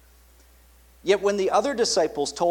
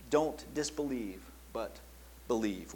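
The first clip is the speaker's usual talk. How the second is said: soft voice of Jesus; 2 semitones lower, 8 dB quieter than usual. Acted. Preacher voices risen Jesus softly.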